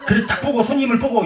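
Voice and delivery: normal talking voice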